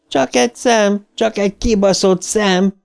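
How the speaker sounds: wild, very high-pitched cries; drunk-with-excitement yelling. A narrator's reading. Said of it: "üvöltözte Eddie megrészegülten". (megrészegült üvöltözés)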